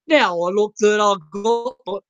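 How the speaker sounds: put-on Aussie accent. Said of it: "I don't know why I'm doing this accent".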